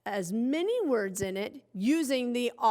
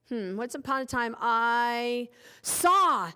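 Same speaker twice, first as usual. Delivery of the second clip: slow dictation. Shown as a demonstration. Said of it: "slow dictation while writing".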